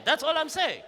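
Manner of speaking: laughing through the repeat; laughing shout. Real, not acted. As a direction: crack up as you repeat it.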